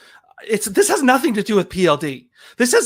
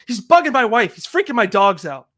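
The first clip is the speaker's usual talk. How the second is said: worked-up, dramatic grievance; dramatic complaint. Acted. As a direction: complain as if it were a great ordeal. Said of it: "you're sounding a little bit dramatic".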